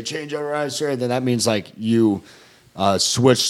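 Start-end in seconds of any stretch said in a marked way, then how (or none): 0.0-0.9 quick clipped recruit response; recruit reply. Retold or imitated. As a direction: snap it back as the recruit. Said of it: "then you say".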